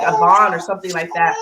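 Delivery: words wet with tears; crying through the reveal. Real, not acted. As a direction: voice breaking as it lands. Tearful reveal of misheard name.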